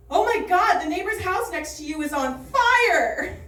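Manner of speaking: mom's alarmed high cry about the fire; panicked mom. Retold or imitated. Mom on the phone shouting about the neighbor's fire. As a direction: sound the alarm like a frantic mom.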